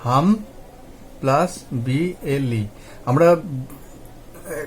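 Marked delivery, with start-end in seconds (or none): 0.0-2.6 হাম, pause, then slow plus বিএলই; deliberate split after হাম, letters of বিএলই drawn out; broken into syllables. Shown as a demonstration. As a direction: set হাম apart, then slowly spell out বিএলই. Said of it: "আমরা এটাকে কিভাবে ভাঙবো".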